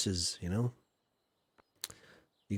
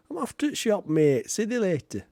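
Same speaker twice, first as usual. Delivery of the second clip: higher broad Yorkshire goodbye; Yorkshire lad heading off; 9 semitones higher than usual. Retold or imitated. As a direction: drop the "the" and say "See thee later.". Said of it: "Like that".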